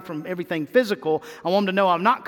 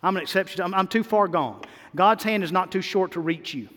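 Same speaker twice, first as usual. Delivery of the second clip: voicing doubter's thoughts; 5 semitones lower, 4 dB quieter than usual. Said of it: "thinking in your mind".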